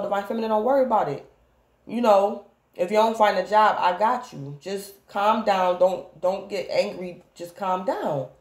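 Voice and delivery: lightly voiced lover, slowing to calm her; a hint of a lover gently calming her down; reassuring lover. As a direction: soothe a worried partner, unhurried.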